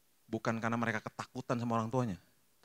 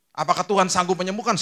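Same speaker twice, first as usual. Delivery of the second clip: rhetorical shout; 8 semitones higher, 9 dB louder than usual. Acted. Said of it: "rhetorical call".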